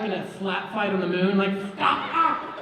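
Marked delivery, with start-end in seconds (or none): 1.7-2.6 high, loud comic shouting; hysterical mock scolding. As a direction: shout it in overdone, high-pitched panic. Slap fight, yelling at each other.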